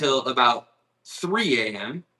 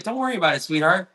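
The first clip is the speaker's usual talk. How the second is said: kind lady; 5 semitones higher, faster than usual. Retold or imitated. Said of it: "the lady got out and was like".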